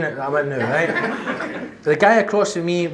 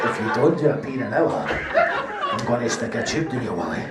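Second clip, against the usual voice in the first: lower, stern nurse warning; firm nurse; 6 semitones lower than usual. Retold or imitated. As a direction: lay down the threat like a no-nonsense nurse. Nurse repeats threat.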